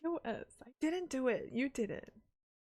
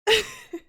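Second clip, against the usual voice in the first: high, loud short laugh; sudden burst of laughter; 11 semitones higher, 9 dB louder than usual. Real, not acted. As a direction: let out a quick high laugh. Laughs at chat.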